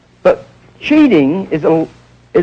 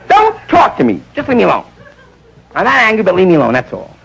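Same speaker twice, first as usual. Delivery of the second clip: higher, lightly voiced offended wife; hurt wife; 4 semitones higher than usual. Wife brushes off husband, lightly voiced hurt. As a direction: push him away in mock hurt.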